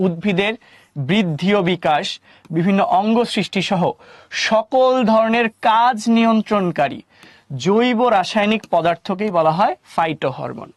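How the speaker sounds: slow, measured teacher reading; deliberate dictation pace with pauses between phrases; definition read-out. Real, not acted. Reads definition out to class.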